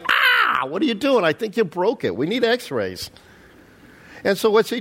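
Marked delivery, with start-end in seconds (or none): 0.1-3.1 hammed-up injured rider; mock pained yelp. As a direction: yelp like your foot got crushed. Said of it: "This is like".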